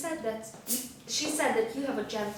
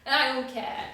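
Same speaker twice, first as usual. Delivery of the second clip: dismissive try; 3 semitones higher than usual. Shown as a demonstration. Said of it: "Just do it".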